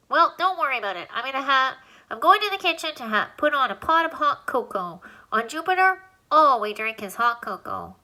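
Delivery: high, squeaky little alien telling him to stop; a tiny voice fussing at a flood; squeaky alien protesting. Acted. Alien tells crying Alan to stop, high and squeaky.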